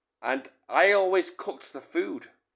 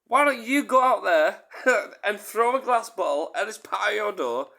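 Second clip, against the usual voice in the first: defiant challenge; 6 semitones higher, 5 dB louder than usual. Retold or imitated. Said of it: "I said".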